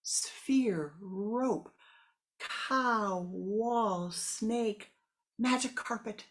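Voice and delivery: rising shouted quarrel; shouting over each other. Acted. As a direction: yell your answer over the rest. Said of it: "they start yelling".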